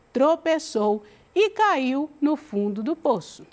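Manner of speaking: fable read aloud to the class, clear and steady; story reading. Acted. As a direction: narrate it like a storybook for students. (leitura de fábula em voz alta)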